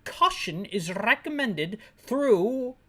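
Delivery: slow fake British briefing; drawn-out British-officer imitation; mock British accent. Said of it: "not through".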